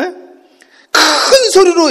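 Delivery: booming preacher's emphasis on a big voice; loud, drawn-out emphasis. Shown as a demonstration. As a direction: stretch it very slowly, high and loud. Acts out scripture's loud voice.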